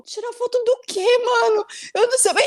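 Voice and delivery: high, incredulous questioning; baffled. Retold or imitated. She answers her friend's photo question, high and baffled. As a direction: play it bewildered and defensive. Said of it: "E eu, tipo".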